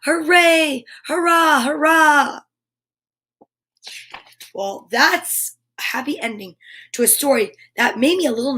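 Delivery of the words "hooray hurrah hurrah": cheering. Acted. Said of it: "shouted all the toys".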